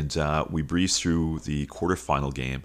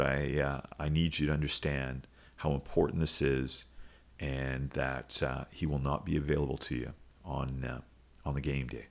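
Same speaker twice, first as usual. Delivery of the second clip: softer, heavy principal delivering bad news; grave, hushed tone; 2 semitones lower, 6 dB quieter than usual. Principal quietly tells coach a player is leaving, hushed. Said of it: "by the tone something wasn't right".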